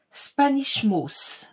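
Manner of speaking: Spanish Moss in a French accent, slow and careful; French-accented English. Real, not acted. Crafter apologizing for her English, French accent. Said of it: "excusez mon anglais".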